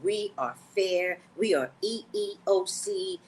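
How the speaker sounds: slow mock-official company line; lightly sent-up corporate voice; corporate spiel. Company to staff, a slow mock-official spiel. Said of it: "they all act like they're not racist".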